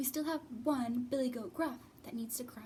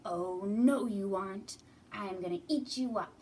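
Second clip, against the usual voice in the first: mean troll; 2 semitones lower, 4 dB louder than usual. Acted. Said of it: "a mean troll".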